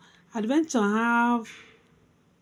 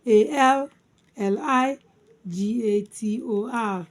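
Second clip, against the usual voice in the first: emphatic first chunk, then settling; spelled by syllables; 3 dB louder than usual. Shown as a demonstration. Teacher spelling alligator for learners, syllable by syllable. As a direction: spell it out with a break after each group. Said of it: "Alligator divided into four syllables".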